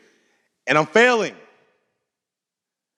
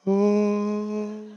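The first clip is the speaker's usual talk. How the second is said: movie music sting; 4 semitones higher, 3 dB quieter than usual. Retold or imitated. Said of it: "I hear the background music".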